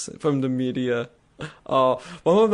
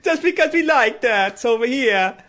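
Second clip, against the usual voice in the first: hammed-up fake Italian, much higher and louder; over-the-top mock Italian accent, pitched way up; 11 semitones higher, 4 dB louder than usual. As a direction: ham up a cartoon Italian stereotype. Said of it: "the fake Italian that nobody actually talks like".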